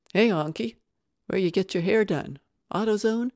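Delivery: loud mocking jeer; jeering taunt. Inmate mocking Ramsey's hair at the table, loud jeer. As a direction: taunt him across the table.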